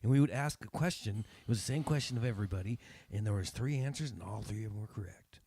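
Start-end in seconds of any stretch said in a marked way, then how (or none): 4.1-5.4 hushed unvoiced aside; whispering. Real, not acted. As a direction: whisper it like a secret. Aside in story.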